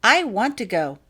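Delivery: put-on a young girl asking her mother to let her go; eager little girl. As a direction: speak up bright and keen like a small girl. Child voiced in story.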